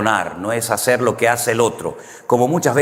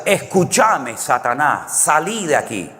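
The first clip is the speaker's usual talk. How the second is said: imitated Argentine accent; 2 semitones higher, slower than usual. Canarian pastor back from Argentina rebukes Satan, imitated Argentine accent. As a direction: pray against Satan in a put-on Argentine accent. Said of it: "porque allí tienen esa forma de hablar".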